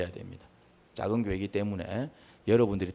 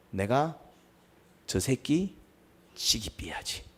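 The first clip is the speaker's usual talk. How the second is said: murderous muttering; 3 semitones higher, much slower than usual. Acted. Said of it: "악한 감정입니다".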